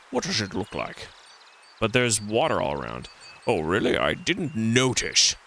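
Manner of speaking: a hint of a cheeky stranded monkey; lightly voiced monkey. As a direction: play the monkey, sarcastic and put-upon, only lightly.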